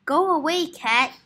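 put-on a child's high, loud shout at the cat. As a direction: raise the pitch and shout go away. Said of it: "shouted Kipper".

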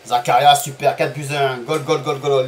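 loud goal, goal, goal chant; goal celebration. Real, not acted.

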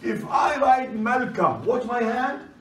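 loud call to the class. Real, not acted. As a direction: project it to the back row. Teacher raising voice to class.

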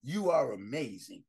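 soft and low, tender reassurance; quiet loving encouragement; warm affirmation. Shown as a demonstration. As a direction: say it softly to each listener. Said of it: "I tell you every day".

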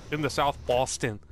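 put-on South Boston accent; hammed-up Boston talk. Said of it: "I know why I'm doing the accent".

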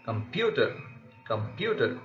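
light "com", strong second syllable in "computer"; weak prefix. Shown as a demonstration. Teacher shows a weak prefix in computer, second syllable stressed. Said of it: "come is a kind of weak prefix".

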